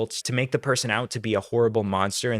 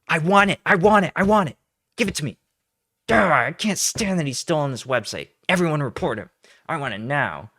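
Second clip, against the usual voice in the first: put-on higher and louder, a childish spoiled whine; mock spoiled demand; 4 semitones higher, 3 dB louder than usual. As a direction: play a brat demanding a toy. Parodying her demands.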